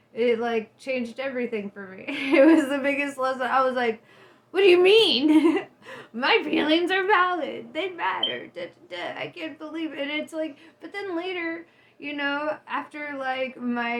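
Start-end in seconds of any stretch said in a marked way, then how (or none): 4.5-10.0 high, loud mock indignation; indignant. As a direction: protest high and loud, offended. Retold indignant self reaction.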